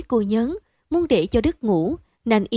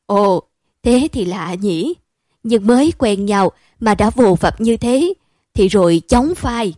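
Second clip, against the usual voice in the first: put-on old vendor's warning; 5 dB louder than usual. Old vendor warns about friendship.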